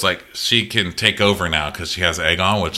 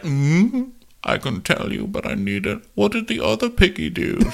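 much higher, wheedling creep voice; creepy eager Larys; 11 semitones higher than usual. Retold or imitated. Larys begging Alicent for the next piggy, high and creepy. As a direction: beg for more like a leering creep.

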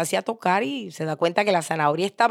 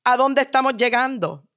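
high-pitched daughter pleading for an explanation; animated, higher-pitched questioning; amused daughter asking; 7 semitones higher, 3 dB louder than usual. Acted. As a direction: press Dad for the meaning, voice raised. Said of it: "se ríe y le dice".

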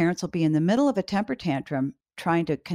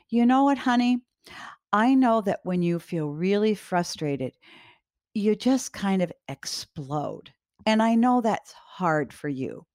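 gentle reassurance; 2 semitones higher than usual. Shown as a demonstration. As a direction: ease the child with a near-whisper. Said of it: "this is what you would say".

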